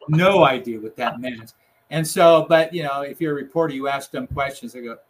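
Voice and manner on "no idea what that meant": laughing through the words. Real, not acted. Retelling the puzzling remark with a laugh. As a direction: chuckle as you repeat it.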